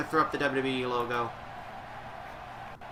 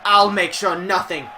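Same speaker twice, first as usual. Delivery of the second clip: mock wrestling promo. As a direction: proclaim it like a wrestler on the mic. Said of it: "that was a real Drew promo".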